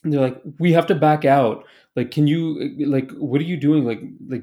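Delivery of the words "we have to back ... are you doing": testy retold challenge, pushed a little louder; arguing. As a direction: imitate someone arguing with the driver. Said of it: "just, like, arguing with him".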